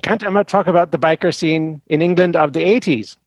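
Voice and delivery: put-on Swedish accent. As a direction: question read in a Swedish accent. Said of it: "the horrible Swedish accent".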